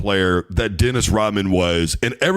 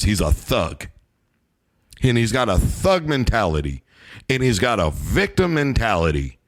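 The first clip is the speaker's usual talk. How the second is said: mock Nurkic. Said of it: "Nurkic sounds to me like".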